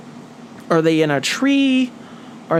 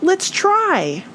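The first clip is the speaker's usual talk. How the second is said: Little Flap; 11 semitones higher than usual. A narrator's reading. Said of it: "he said".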